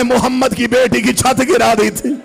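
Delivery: chanted, mournful majlis recitation; impassioned lament preaching. Acted. Zakir telling of Zahra pleading at the door, chanted lament. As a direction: plead through the story in a sustained chant.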